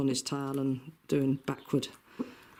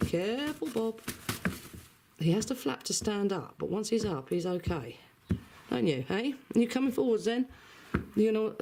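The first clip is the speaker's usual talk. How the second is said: much higher fretting voice to the hen; anxious pet talk; 7 semitones higher than usual. Real, not acted. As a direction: fuss over the bird, pitched way up. Worried about pet chicken.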